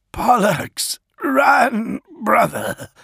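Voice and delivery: high, desperate yell at a comrade; loud strained cry of exasperation; exasperated yell. A narrator's reading. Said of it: "yelled in exasperation".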